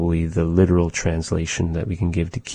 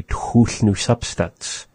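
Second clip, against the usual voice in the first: slow model phrase; 3 semitones higher, slower than usual. Shown as a demonstration. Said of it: "we can say".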